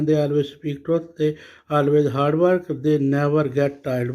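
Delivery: slow, deliberate reading of the answer; slow dictation. Shown as a demonstration. Teacher reading an answer to students, slow dictation. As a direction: read it out slowly for copying.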